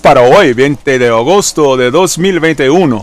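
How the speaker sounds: booming Spanish ring announcer intro; lucha libre announcer. Pretend. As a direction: hype it up like a wrestling MC. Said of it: "No, I'm just playing with y'all".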